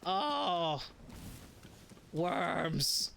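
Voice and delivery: hammed-up pitch about worms and poop; mock earnest storyteller. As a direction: spin the gross tale like a solemn expert. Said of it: "I have to stop".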